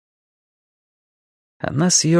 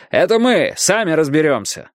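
gruff bark at the door; 5 semitones higher than usual. A narrator's reading. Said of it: "гаркнул Страйк".

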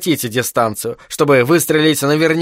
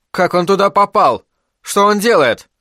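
higher-pitched, mildly startled questions; astonished questions; 6 semitones higher than usual. A narrator's reading. Isaac wonders at the figure on the ledge, astonished. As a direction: narrate a character's puzzled surprise.

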